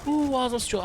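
panicked shout of oo; excited yelling. Real, not acted. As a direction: yelp in alarm under fire. Gets shot at in game.

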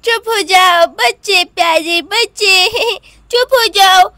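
put-on slow babyish cooing; a little boy lulling babies in his arms; toddler lulling. (छोटे बच्चे का धीमे पुचकारना)

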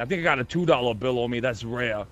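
put-on light Pennsylvanian accent, fast; a driver in a mild Pennsylvanian accent. Driver brags to officers in a light Pennsylvanian accent. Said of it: "that's a really nice Pennsylvanian accent".

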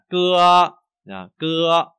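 loud high cưa held evenly; level, sustained cưa. Shown as a demonstration. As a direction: hold each cưa on one note. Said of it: "Âm đều và ngang ra". (cưa đều và ngang)

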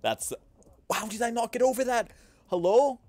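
high, loud mock disbelief at the camera; mock streamer outrage. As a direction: ham up the outrage for an imaginary face cam. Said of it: "I can be like".

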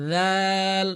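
দাল with the tongue out, soft and held; soft dhal. Shown as a demonstration. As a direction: model দাল softly, tongue between the teeth. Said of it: "জিহ্বাটা বের করে পড়তে হবে".

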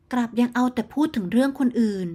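plain reading voice

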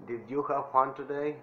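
teacher modelling the phrase for repetition; model English phrase. Shown as a demonstration. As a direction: clear model pronunciation of "Did you have fun today?". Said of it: "traten de imitar mi voz".

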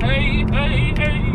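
excited. Real, not acted. Cheering in the car.

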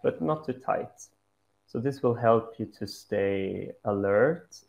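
calm meditation guide with long pauses; unhurried guided-meditation voice. Acted. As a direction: lead them gently into stillness, pausing between instructions.

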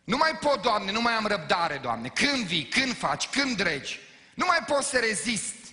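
loud, high exasperated complaint; impatient believer. Retold or imitated. Believer losing patience with God, loud mock exasperation. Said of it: "asta este expresia pentru răbdare".

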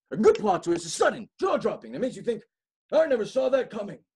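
high, loud and thrilled; excited. Acted. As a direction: sell the twist like a showman. Excited pitch for plot twists.

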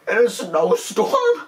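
high, slow laugh-cry; mock sobbing laugh; laughing wail. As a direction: stretch it out through laughter. Laughing wail about dog.

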